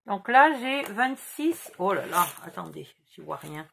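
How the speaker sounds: talking around a pencil in mouth. Real, not acted. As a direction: speak with a pencil held in the mouth. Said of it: "J'ai le crayon dans la bouche".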